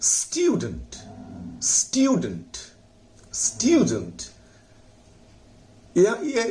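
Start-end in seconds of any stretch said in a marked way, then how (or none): 0.0-4.2 teacher models स्टूडेंट for the class; model pronunciation. Shown as a demonstration. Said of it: "उसके बाद है". (शिक्षक का आदर्श उच्चारण)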